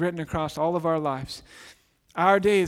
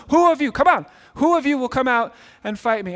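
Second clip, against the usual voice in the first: loud, higher mock-giant challenge; Goliath taunting; 7 semitones higher, 8 dB louder than usual. Giant shouting a challenge at the Israelites, booming and mocking. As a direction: bellow the dare at the cowering army.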